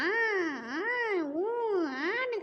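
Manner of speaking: drawn-out "aa, oo" imitation of yelling; mock yelling. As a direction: mimic her shouting without really shouting. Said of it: "கத்தி கத்தி பேசுறா".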